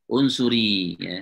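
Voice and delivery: "Unsuri" said slowly, each syllable clear; model pronunciation. Shown as a demonstration. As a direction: drill "Unsuri" slowly for the class. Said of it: "unsuri gitu ya".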